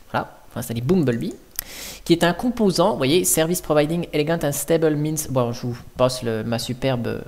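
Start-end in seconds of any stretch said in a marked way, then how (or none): 3.2-5.3 English read with a French accent; French accent on English words. Real, not acted. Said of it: "mon superbe accent anglais".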